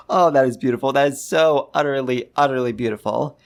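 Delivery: breathless with delight; awed gasp. Real, not acted. Gasps at a beautiful moment.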